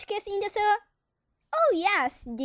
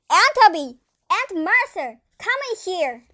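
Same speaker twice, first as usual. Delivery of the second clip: calling out; 3 dB louder than usual. Acted. Calling aunts from another room.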